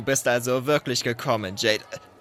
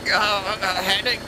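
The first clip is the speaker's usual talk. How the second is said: high, strained cursing; pinned to the ceiling, cursing; squashed furious yell; 8 semitones higher, slower than usual. Acted. Rival squashed against ceiling.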